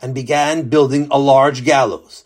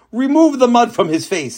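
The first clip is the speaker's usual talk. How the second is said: higher, louder sharp command; sharp order; 9 semitones higher, 3 dB louder than usual. Acted. King ordering the executioner, sharp and loud. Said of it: "he ordered sharply".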